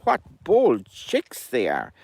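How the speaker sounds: slow, mildly tutting mother hen; drawn out, shaking her head at bold chicks; Henny scolding. Acted. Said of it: "Henny was saying".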